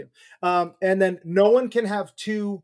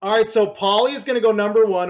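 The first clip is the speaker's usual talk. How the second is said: dramatic; 4 semitones higher, 6 dB louder, faster than usual. Pretend. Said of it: "Hold your applause".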